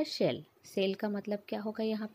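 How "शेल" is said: शेल said as shell with a curled-tongue sh; curled sh sound. Shown as a demonstration. Teacher demonstrating the curled sh in शेल for students. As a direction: start शेल on a clear sh. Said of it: "तो इसमें क्या हो जाएगा?".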